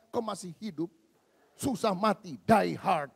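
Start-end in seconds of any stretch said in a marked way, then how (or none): 1.6-3.1 loud, punchy preacher's cry; preaching shout. Real, not acted. Preacher to congregation, loud punchy cry. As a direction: belt it out to the congregation.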